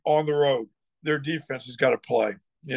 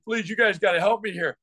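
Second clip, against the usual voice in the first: excited mock plea; 5 semitones higher than usual. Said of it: "I was so excited".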